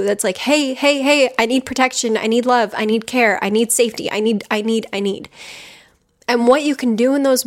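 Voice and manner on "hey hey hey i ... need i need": put-on a child begging for care; lightly voiced little kid pleading; needy inner child. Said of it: "little you just screaming at the adult you".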